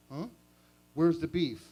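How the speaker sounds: catchphrase shout. Retold or imitated. Wendy ad catchphrase.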